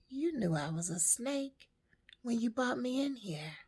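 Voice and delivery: understated, unbothered snake reply; matter-of-fact. Acted. Snake answers the woman it bit, matter-of-factly. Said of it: "very matter-of-factly".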